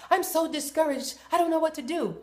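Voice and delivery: high, whiny mock discouragement; mock discouraged whine. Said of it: "call me talking about".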